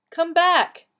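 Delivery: high, loud call after someone leaving. A narrator's reading. Gramps calls after the vanishing blue box, calling out. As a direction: raise the voice high and shout it. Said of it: "he called out".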